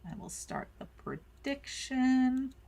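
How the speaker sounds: words run together, slurred; slurring words. Real, not acted. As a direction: slur it slowly. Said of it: "I feel like I'm slurring".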